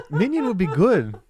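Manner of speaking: minion voice. Pretend. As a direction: put on a silly minion voice. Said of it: "I need the pitch as well".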